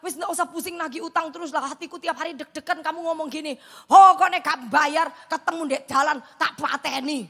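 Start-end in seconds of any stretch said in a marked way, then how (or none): 3.9-7.3 slow, much louder menacing threat; mock threatening debtor. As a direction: loom over her like an angry debtor. Debtor threatening to kill her.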